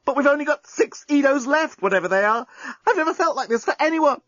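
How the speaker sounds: Lucy frantic. Acted. Lucy to the journalist with minutes left, high frantic and passionate. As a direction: gush it all out in a panic of passion. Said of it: "yelled Lucy".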